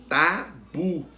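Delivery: tabu split into ta and bu; teacher's careful tabu, ending on bu; stress on BU. Shown as a demonstration. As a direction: sound out tabu in two deliberate syllables. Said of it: "Qual que a gente pronuncia com mais força?".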